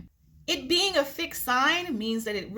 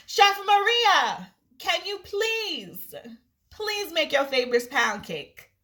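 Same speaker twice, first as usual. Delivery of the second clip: higher, slow, drawn-out begging; pleading request; 4 semitones higher, slower than usual. Retold or imitated. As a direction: stretch it out like sweetly begging a friend. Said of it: "she like".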